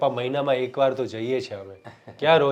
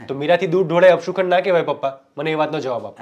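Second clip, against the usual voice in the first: louder, higher indignant challenge; heated protest; 3 semitones higher, 5 dB louder than usual. Real, not acted. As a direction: demand an answer from father, fired up. Son argues with father. (પપ્પા સામે ઊંચા અવાજે ઉશ્કેરાયેલો વિરોધ)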